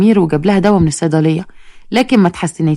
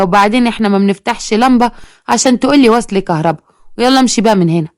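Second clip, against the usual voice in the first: put-on sassy little girl; 2 semitones higher than usual. A lightly voiced little girl snapping at the bill collector. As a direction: talk back like a rude small girl.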